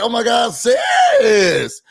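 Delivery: shouting sis in delight; excited greeting. Retold or imitated. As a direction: squeal a friend's hello. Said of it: "And I'm like".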